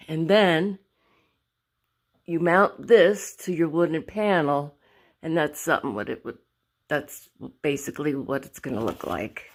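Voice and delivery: slightly winded, breathing between phrases. Real, not acted. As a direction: talk while catching your breath. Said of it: "I am a little out of breath".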